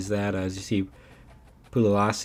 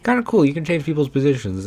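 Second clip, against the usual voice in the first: much higher, louder burst of delight; light up about it; 4 semitones higher, 5 dB louder, faster than usual. Real, not acted. Gamer to viewers, delighted by his converted safety.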